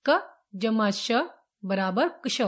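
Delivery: क जमा श spelled out slowly, piece by piece; slow dictation. Shown as a demonstration. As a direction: spell out the sum for students. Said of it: "teacher demonstrates combining letters". (धीमा, साफ़ उच्चारण)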